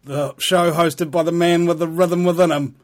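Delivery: booming racetrack announcer voice; horse race announcer. Acted. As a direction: call it like the horses are running. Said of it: "you might wonder why I'm talking like a horse announcer".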